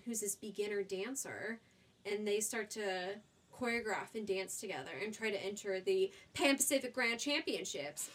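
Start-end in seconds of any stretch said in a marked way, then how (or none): 5.8-8.1 slight put-on Australian accent; jokey, half-hearted Australian accent; attempted Australian accent. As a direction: lightly slip into an Australian accent. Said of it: "that was my Australian accent".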